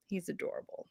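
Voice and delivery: whispered, doting. Shown as a demonstration. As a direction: breathe it out in a whisper. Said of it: "whispered repeat".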